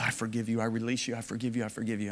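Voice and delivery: low, softened murmur, voiced; whispering under breath. Man forgiving his offender at the back of a service, under his breath. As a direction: imitate a private whispered prayer, hushed. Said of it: "I remember whispering under my breath".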